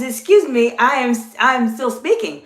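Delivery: courteous but clear correction; a friendly, emphatic check; polite check. Shown as a demonstration. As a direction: politely hold the floor. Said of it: "it's still a very polite check".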